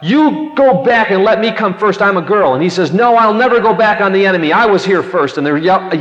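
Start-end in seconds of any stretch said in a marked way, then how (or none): 0.0-2.5 imitating a bossy girl's yell, higher pitched; acted yell. Girl to Teddy across the footbridge, mock yelling. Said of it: "the girl yelled out". 2.9-5.4 acted-out defiant boy, raised and higher; yelling back. Teddy refusing the girl on the bridge, defiant yell. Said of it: "yelling back and forth".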